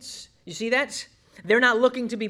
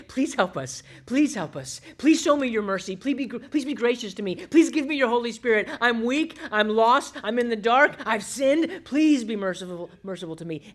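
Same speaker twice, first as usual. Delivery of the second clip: pleading prayer; 4 semitones higher than usual. Pretend. Preacher voicing a needy believer's prayer to God, pleading. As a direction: beg God for mercy, climbing in pitch and force.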